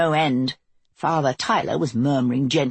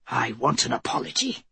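curt angry snap; snapped; 5 semitones lower, 5 dB quieter than usual. Acted. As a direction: bite it off sharply. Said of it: "he snapped".

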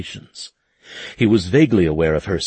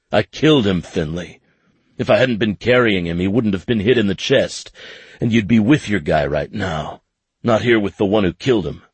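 louder, raw self-blame; anguished confession, louder and faster at the end; 3 semitones higher, 3 dB louder than usual. Acted. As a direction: force out the guilt.

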